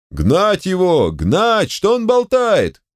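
high, slow, hostile jeers; angry yelling. A narrator's reading. The crowd yelling at Volgin to get off, high and hostile. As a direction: bawl him off the stage. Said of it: "заорали вокруг".

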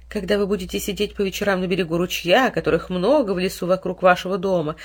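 plain reading voice

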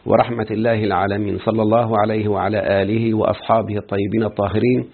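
steady formal Arabic recitation; opening invocation. Acted. Teacher opening a lecture with prayer, formal recitation. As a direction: recite the praise and prayers evenly.

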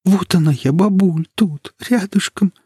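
high, tender voice about to cry; close to tears. A narrator's reading. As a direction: hold back tears for grandmother. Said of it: "Даша заплакала". (высоко, нежно, на грани слёз)

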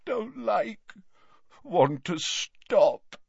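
slow, weak, broken moan. Acted. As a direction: moan it out in pain. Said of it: "moaned Dumbledore".

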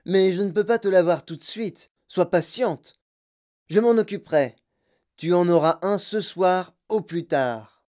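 weary father promising to buy it; placating father. A narrator's reading. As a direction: soothe the spoiled child so she stops. Father placating spoiled daughter.

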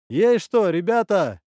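high, loud shout from afar; calling out. Acted. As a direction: holler over to the lads. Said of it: "кричал он".

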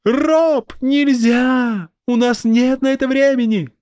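put-on high girl's urgent shout. A narrator's reading. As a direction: shout across to a friend. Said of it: "прокричала девочка".

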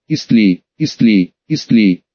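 low, eerie otherworldly screech. A narrator's reading. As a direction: shriek it like an eldritch horror. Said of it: "Потусторонним голоском заверещал он".

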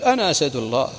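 mildly voiced war boast, retold; proud battle boast. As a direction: lightly imitate a warrior proclaiming his title. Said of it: "يعتزي". (اعتزاز خفيف يحاكي فخر المحارب)

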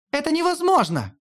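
high wail of dismay. Acted. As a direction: wail it in horror. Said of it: "взвыла Хель". (взвыла, высоко и отчаянно)

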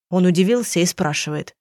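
plain reading voice

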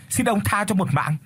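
a last desperate plea, voiced high; le le bird begs the hunter to spare her life; trembling plea. A narrator's reading. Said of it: "run rẩy cái giọng the thé".

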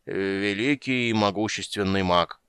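put-on slow, grand drunken pronouncement; pompous drunk wizard; solemn declaration. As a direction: announce it with mock grandeur. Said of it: "торжественно заявил он".

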